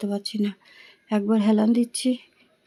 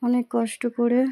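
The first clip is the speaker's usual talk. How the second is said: speaking through a painful throat; strained sore throat. Real, not acted. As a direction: push the words out against throat pain. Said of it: "চেপে চেপে কথা বলছি".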